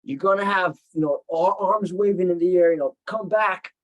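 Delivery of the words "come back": pleading scream. Retold or imitated. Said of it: "screams and tears".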